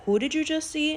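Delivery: half-mocking shock; spooked elder. Elder hears the entity described, mildly spooked. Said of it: "She was like".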